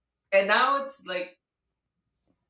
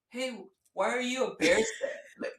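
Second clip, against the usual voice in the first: higher-pitched mock challenge; mock confrontational; 4 semitones higher, 4 dB quieter than usual. Husband challenges a Bears fan, mock confrontational. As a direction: pick a playful fight over a team. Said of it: "like he's about to brawl with them".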